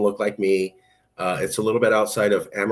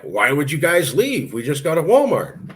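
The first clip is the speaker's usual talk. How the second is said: hammed-up small-town bafflement; incredulous cousin; 6 semitones higher, 3 dB louder than usual. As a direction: play the baffled Texas cousin. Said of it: "my cousins in Texas were like".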